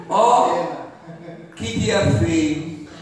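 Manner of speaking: slow, low grumble; mock miserable drawl; gloomy complaint. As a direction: moan about it like a killjoy. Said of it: "o mundo e a vida são horríveis".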